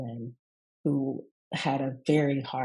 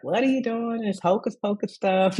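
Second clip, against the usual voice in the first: lightly voiced doubtful mother, a bit higher; skeptical mom; 5 semitones higher, 4 dB louder than usual. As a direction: scoff at the hocus pocus like her mom. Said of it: "she's like".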